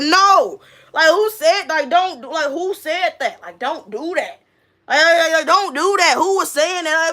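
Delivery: high, insistent objection; mock protesting. Telling the kids to stop repeating it, protesting.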